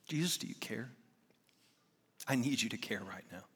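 breathy whispered plea, very soft; whispered prayer. Retold or imitated. Father praying alone on the drive, whispered. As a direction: whisper it like it's all you've got.

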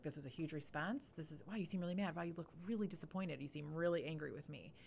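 quiet, gentle naming of feelings; calmly mirror the child's anger back; soft reassuring parent voice; soft empathetic reflecting. Shown as a demonstration. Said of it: "it just name and give back".

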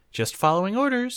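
high, loud perky chirp. Acted. Sora to Yamato, chirping playfully up high. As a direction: bounce it out playfully. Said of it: "she chirped".

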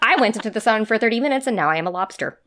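high, fast mock-whiny complaint; playful self-pitying whine. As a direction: complain like it's so unfair. Her own whiny quoted complaint.

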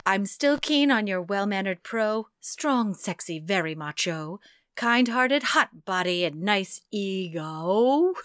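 slow, playful love poem recital; poem reading. Acted. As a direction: savour each line of the ode. Reads listener's love poem.

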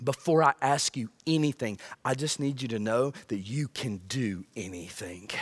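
soft, low, intimate prayer; almost whisper it to God; hushed prayer. Retold or imitated. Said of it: "They're looking at God going".

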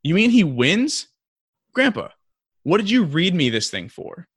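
high-pitched, dismayed imitated kid; mock-outraged grandson, pitched right up; upset boy. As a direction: protest like a child let down by the story. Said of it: "And the boy says".

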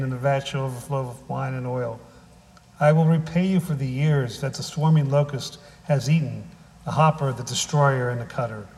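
measured, solemn reading of holy text; scripture reading. Acted. Pastor reading Joel to the congregation, solemn and measured. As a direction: read it out like scripture from the pulpit. Reads scripture before the sermon.

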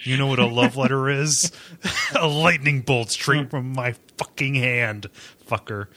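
lightly acted movie-psycho threat; a menacing film monologue, easing down as it goes; Frank Booth. Quoting a film villain to co-host, lightly menacing impression. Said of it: "like, Frank Booth from Blue Velvet".

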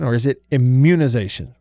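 "immunization" stressed on the MUN; im-MUN-ization, second syllable stressed. Shown as a demonstration. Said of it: "where do we put the emphasis".

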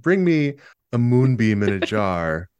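slow, drawn-out witchy quest giver; lightly voiced fantasy quest giver, stretching the words. Podcaster imagines an odd delivery order, as a slow, witchy quest giver. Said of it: "like a video game quest giver".

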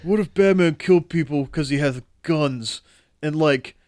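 lightly voiced edgy teen; a hint of a brooding teen edgelord; fourteen-year-old edgelord voice. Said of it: "I love your fourteen-year-old edgelord voice".

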